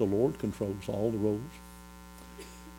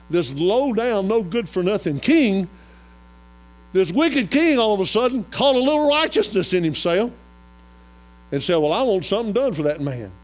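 high, loud, ringing sermon delivery; impassioned pulpit storytelling at raised pitch; full-force preaching; 9 semitones higher, 8 dB louder than usual. Real, not acted. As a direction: preach it out to the whole congregation.

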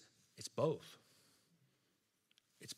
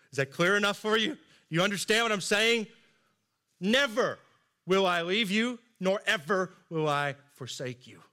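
raised, louder voice pressing the point; emphatic insistence; 5 semitones higher, 4 dB louder than usual. Acted. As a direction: drive the promise home high and forceful, easing at the end. Jesus insisting on his promise.

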